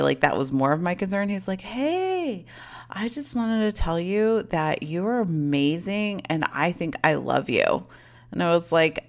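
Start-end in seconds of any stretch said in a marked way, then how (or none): 1.6-7.9 put-on drunk guy. Drunk guy's phone confession.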